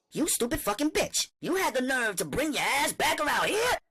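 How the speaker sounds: furious shout. Acted. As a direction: scream at her in rage. Simone attacks Winter screaming.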